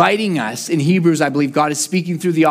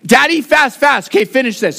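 put-on toddler agreeing; 5 semitones higher than usual. Toddler son agrees to finish dinner, high. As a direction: chirp it back like a little boy. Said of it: "and then he said".

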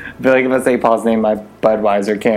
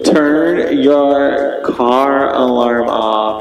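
drawn-out yell; much slower than usual. Real, not acted. Yelling at car alarm outside.

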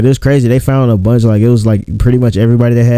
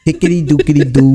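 silly hick singsong; 4 semitones higher than usual. Pretend.

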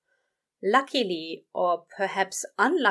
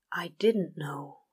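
breathlessly; 2 semitones lower than usual. Acted. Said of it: "Crowley said breathlessly".

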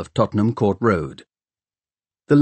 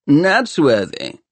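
higher, louder, slow braying call; 6 semitones higher, 4 dB louder, slower than usual. Acted. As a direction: bray the name out like a mocking bully. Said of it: "called a braying voice".

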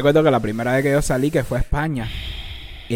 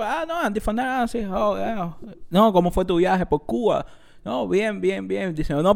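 friendly officer; 4 dB quieter than usual. Retold or imitated. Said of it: "el tipo".

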